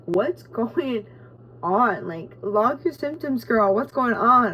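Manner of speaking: sassy mock app voice; voicing her Oura Ring. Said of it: "my Oura Ring's like".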